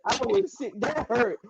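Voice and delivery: very high-pitched mock hurt; hammed-up heartbreak. Fan telling friends how the signing hurt, hammed-up heartbreak. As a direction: squeal it in exaggerated pain. Reliving news of player leaving.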